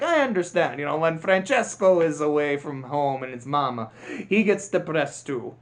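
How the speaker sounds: lightly voiced Italian race car; a touch of mock Italian accent; Francesco. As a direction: put on a mild Italian accent. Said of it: "my offensive Italian accent".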